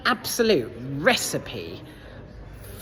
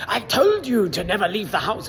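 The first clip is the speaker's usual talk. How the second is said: a bad mock Scottish dad, slightly higher; hammed-up Scottish father scolding his son; bad Scottish accent; 4 semitones higher than usual. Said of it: "worst Scottish accent in the world".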